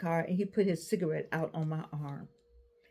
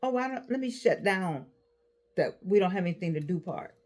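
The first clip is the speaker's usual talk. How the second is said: voicing her own mind; 4 semitones higher than usual. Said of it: "your mind will say".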